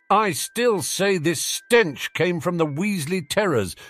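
muffled as if inside a bubble; tinny muffled voice. Acted. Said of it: "in a tinny, muffled voice".

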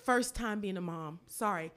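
lowering the voice to say sorry kindly; soft apology to son. Retold or imitated. Mom apologizing to her thirteen-year-old son, softly. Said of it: "I tend to say".

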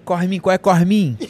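badly faked Rio accent, calling out; mock carioca hailing a pal; carioca imitation. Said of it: "imitação dele de carioca".

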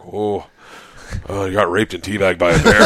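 lightly voiced unruffled Midwesterner; dry Minnesota producer. Producer briefing him as he wakes, dry. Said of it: "Very, like, dry".

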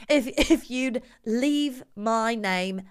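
slow put-on English accent, not posh enough; too-street English accent. Host botching the fake gentleman's request, too-street English accent. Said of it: "No, that's two Street".

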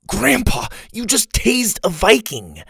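put-on very high-pitched, astonished child; shocked outcry. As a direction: exclaim in a high child's voice, aghast. Shocked boy exclaims at Grandpa.

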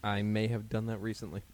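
a hushed guilty whisper; whispered guilty confession to a friend. Real, not acted. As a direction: whisper it like a secret admission.

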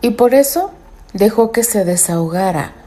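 measured storyteller reading; story narration. A narrator's reading. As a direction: read it like a novel.

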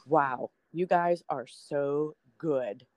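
drawn-out, starstruck compliment; slow admiring praise. Retold or imitated. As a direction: say it slowly, wide-eyed with awe. Admiring the anchormen after training.

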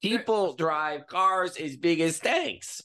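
put-on high, comic Russian accent; stand-up delivery in a put-on Russian accent; Yakov Smirnoff. Comedian telling an America joke, Russian accent. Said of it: "do you guys remember Yakov Smirnoff?".

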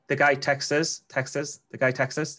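"texts us" run together as "Texas" in Geordie; Geordie accent. Shown as a demonstration. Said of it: "that's my Geordie accent".

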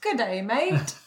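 lightly hammed Australian greeting; playful mock-Australian voice; put-on Australian accent. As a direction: try on an Aussie accent. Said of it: "hot Australian accents".

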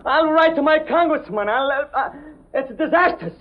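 high, flustered complaining; outraged wailing. Acted. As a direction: wail it like the end of the world. Cabbie wailing about disaster.

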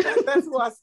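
mock dad. Imitating dad's reply.

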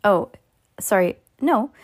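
ordinary delivery, nothing marked

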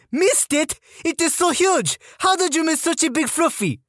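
high French-Canadian female sergeant voice; French-Canadian accent. Retold or imitated. Female sergeant scolds recruit over fluff, French-Canadian accent. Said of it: "female French-Canadian sergeant with this accent".

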